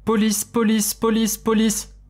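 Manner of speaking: a mimic stretching the word out eerily; parroting creature. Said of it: "ressemblait exactement à celle de ma mère, comme un perroquet". (répétition inhumaine, de plus en plus lente et plus aiguë)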